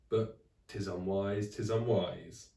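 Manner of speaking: slow drawn-out solemn warning; ominous warning. Acted. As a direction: intone it like a prophecy. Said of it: "warned Friday".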